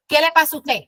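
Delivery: a firm grandmother's warning question; playful stern rebuke to granddaughter. Retold or imitated. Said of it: "pero con el tono de voz".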